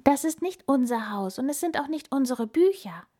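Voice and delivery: high-pitched hedgehog lament; plaintive storybook wail. A narrator's reading. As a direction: whine with worry. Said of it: "jammerte der Igel".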